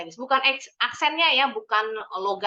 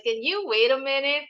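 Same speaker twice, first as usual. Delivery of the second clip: "can you wait a minute?" with the voice climbing to the end; rising question intonation; 3 semitones higher than usual. Shown as a demonstration. Teacher models a yes-no question for students, rising intonation. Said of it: "use the rising intonation".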